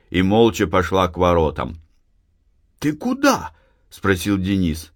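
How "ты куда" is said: put-on high boyish question; young brother asking. A narrator's reading. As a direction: call after his sister. Brother voiced. (брат окликает сестру)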